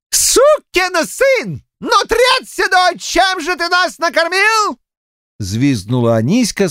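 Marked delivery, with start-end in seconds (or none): 0.1-4.8 high-pitched shouted abuse; angry outburst. A narrator's reading. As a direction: let indignation drive the voice up high. Enraged eater abuses the cook. (гневно бранится, высоким голосом)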